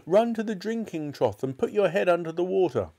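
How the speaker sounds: high-pitched frantic instructions; shrieking. A narrator's reading. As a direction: shriek urgent orders at her. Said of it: "shrieked Missus Cranky".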